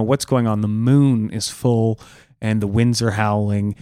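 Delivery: usual speaking voice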